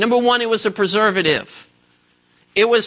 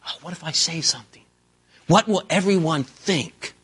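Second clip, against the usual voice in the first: timid mock worry; 4 semitones lower, 4 dB quieter than usual. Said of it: "stop being intimidated or stop being quiet".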